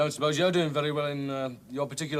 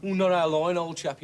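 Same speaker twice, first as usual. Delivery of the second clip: smarmy shopkeeper; 3 semitones higher, 4 dB louder than usual. Retold or imitated. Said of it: "some smarmy creep in suede shoes".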